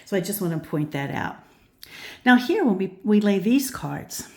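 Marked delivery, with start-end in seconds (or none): 2.2-4.3 breathless, gasping between words; short of breath, pushing words out. Real, not acted. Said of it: "I'm sorry, I'm out of breath".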